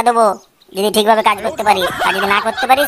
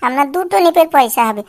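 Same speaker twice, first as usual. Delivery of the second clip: whining beggar; 2 semitones higher than usual. Acted. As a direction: wheedle coins from passers-by. Begging continues.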